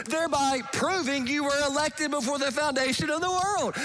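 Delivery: ringing, full-voiced proclamation; preaching shout. Real, not acted. Preacher urging listeners to come to Christ, shouted. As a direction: call it out to the whole room.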